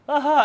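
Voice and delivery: loud, high burst of mock laughter; imitated hysterical laugh. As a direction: mimic a sudden hysterical cackle. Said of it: "he was laughing hysterically".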